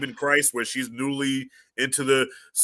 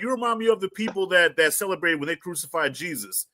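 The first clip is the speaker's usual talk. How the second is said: mimicking daughter; 6 semitones higher than usual. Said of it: "she said".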